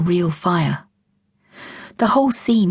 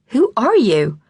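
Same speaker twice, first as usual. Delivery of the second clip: high, startled shout, more shock than anger; a man in a towel yelling at the intruder; 5 semitones higher, 4 dB louder, slower than usual. Acted. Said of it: "he yelled, more in shock than anger".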